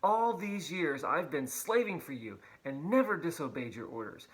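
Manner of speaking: resentful son, loud and indignant; angry older son. Acted. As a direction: accuse the father, voice rising. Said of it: "He says".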